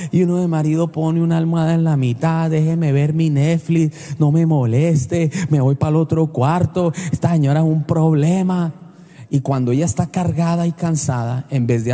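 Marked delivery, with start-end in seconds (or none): 2.5-8.7 lightly voiced, lower gruff husband; a hint of an annoyed husband brushing her off; grumpy husband. Voicing a dismissive husband.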